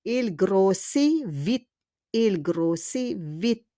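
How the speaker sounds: "Il grossit vite" slowly, "grossit" ending in ee; silent T. Shown as a demonstration. Teacher reads the example sentence twice, silent T. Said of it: "we don't pronounce the T".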